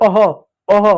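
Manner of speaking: अह ending in a breathed h; breathy ah sound. Shown as a demonstration. Teacher showing visarga, breathed अह. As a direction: push out अह with air. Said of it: "अह का प्रयोग".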